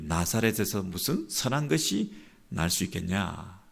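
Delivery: understated, unimpressed scoffing question; mildly dismissive rebuke. Retold or imitated. Nathanael answering Philip about Nazareth, lukewarm and chiding. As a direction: put the friend down a little, unconvinced. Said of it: "약간 시큰둥한 반응을 보이며 핀잔을 주듯이".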